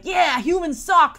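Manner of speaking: slow, high, loud droid sneer. Retold or imitated. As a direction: spit it out like a hateful robot. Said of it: "a pro droid droid who's like".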